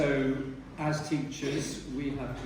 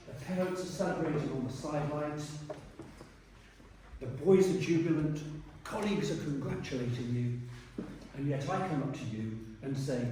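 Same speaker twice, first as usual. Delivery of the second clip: posh headmaster. Retold or imitated. Headmaster putting a hard question to a job candidate, mildly posh voice. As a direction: put on a mildly plummy interviewing headmaster. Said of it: "here's the pucker voice here, the very posh voice".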